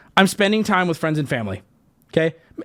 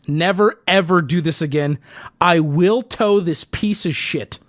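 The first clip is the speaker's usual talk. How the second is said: reading in all caps; 4 semitones lower than usual. Retold or imitated. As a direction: lean on each word as if written in capitals. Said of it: "we're now in all caps".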